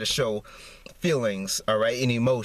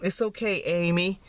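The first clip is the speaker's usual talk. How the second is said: higher, soothing mock reassurance; mock comforting; 4 semitones higher than usual. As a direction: coo it like consoling a crying girl. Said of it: "everybody gonna say".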